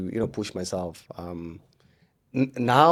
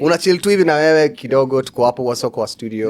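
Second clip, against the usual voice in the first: radio voice; 3 semitones higher, 6 dB louder, faster than usual. Retold or imitated. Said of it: "fake that radio voice".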